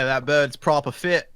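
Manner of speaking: put-on British accent. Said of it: "swearing in British".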